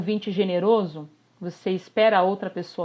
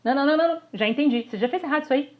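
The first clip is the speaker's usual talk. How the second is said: mock critical listener interrupting; 3 semitones higher, faster than usual. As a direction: cut them off, fault-finding. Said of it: "E um ouvinte crítico".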